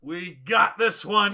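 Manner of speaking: slow, laughing mock Florida voice; slow drawl quote. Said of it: "Florida's like".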